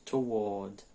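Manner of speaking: two-syllable British "toward", to-WAWD. Shown as a demonstration. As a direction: model toward as "tuh-WAWD". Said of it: "Então, tem duas sílabas". ("toward" em duas sílabas, "tu-uód")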